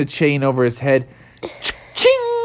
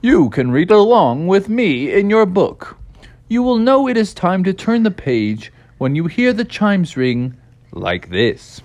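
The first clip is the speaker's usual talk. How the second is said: measured storybook intro voice; storybook narrator; 4 semitones higher, 4 dB louder than usual. Acted. Opens a read-along storybook.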